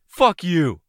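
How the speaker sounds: high, loud snarl; angry curse. Acted. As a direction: spit it out at her. Mercenary swears at Candy.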